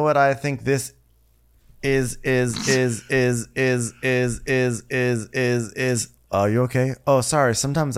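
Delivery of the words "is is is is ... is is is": evenly spaced, identical repeats of "is"; mechanical repetition. Pretend. Setting up a tennis pun, mechanical repetition. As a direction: repeat "is" like a stuck record. Bit: says is ten times.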